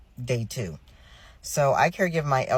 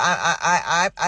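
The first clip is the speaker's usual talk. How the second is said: exasperated laugh; 3 semitones higher, 5 dB louder than usual. Real, not acted. Stammering laugh while venting.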